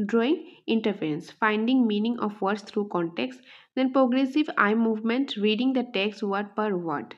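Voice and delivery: measured, deliberate quiz reading; slow option reading. Shown as a demonstration. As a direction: read each option out slowly. Reads answer options slowly.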